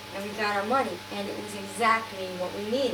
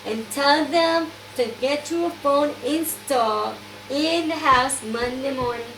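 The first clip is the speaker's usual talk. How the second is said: imitated Dutch accent, slightly raised pitch; Inga; 4 semitones higher than usual. Dutch friend arranging a phone for her, imitated accent. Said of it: "a Dutch accent".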